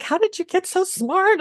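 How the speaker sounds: mom's amazed question, pitched well up. Retold or imitated. Mom in tears praising daughter, high and amazed. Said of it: "she just starts crying".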